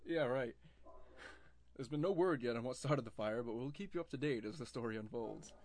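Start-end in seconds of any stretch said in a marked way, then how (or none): 1.8-5.5 formal news anchor read; newscaster voice. Shown as a demonstration. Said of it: "I kinda sounded like a newscaster there".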